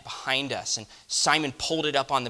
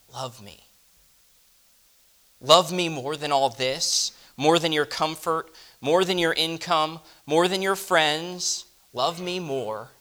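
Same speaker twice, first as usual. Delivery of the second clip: building urgent plea; 5 semitones higher, 4 dB louder than usual. Acted. Jesus's compelling command.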